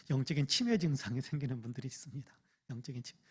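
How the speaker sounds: "영적인 치매" whispered without voice. Shown as a demonstration. Pastor whispering to the congregation about spiritual dementia. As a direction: lean in and whisper it.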